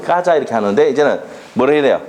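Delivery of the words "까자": higher-pitched Gyeongsang demo; short quoted Gyeongsang phrase; Gyeongsang dialect. Shown as a demonstration. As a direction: say it as Gyeongsang locals would. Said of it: "경상도는".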